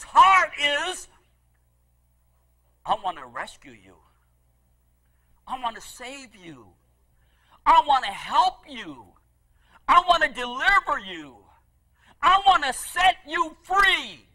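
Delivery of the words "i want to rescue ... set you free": a whispered plea swelling into a shout; pleading cry building to a shout. Acted. God's heart crying out to lost humanity, hushed rising to shouted.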